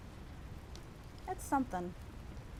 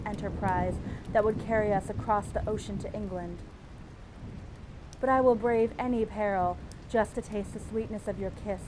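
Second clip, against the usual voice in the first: dramatic romance read. Acted. Streamer reading the cover letter to viewers, swooning romance read. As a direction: read it like a breathless seduction.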